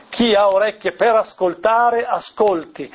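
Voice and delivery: measured proclamation of the verse; proclamazione. Shown as a demonstration. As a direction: proclaim it clearly, falling away on the last word. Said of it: "allora è meglio dire". (versetto proclamato con chiarezza)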